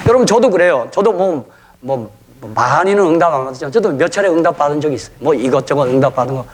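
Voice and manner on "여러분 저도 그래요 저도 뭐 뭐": ordinary talk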